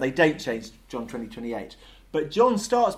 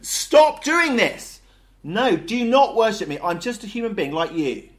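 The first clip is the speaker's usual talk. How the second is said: very loud, high drawn-out shout easing down; violent protest; 9 semitones higher, 10 dB louder than usual. Acted. Apostles refusing to be worshipped, violently upset. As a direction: shout to stop them, then explain insistently. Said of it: "It's a really violent reaction".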